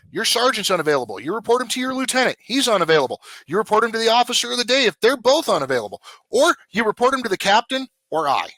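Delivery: hammed-up boss barking orders at the squad; mock commanding chief; mimicking the chief's lecture. Chief laying down rules.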